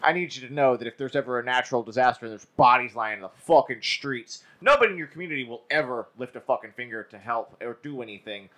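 sarcastic mock public address. Real, not acted. Host warning folks about disaster cleanup, sarcastic. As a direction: lay on the sarcasm like advising folks. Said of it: "hear the sarcasm in my fucking voice".

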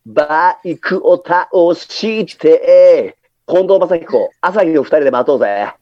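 slow crooned idol line; a hint of an idol singer; impression of an idol singer. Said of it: "次、マッチ。".

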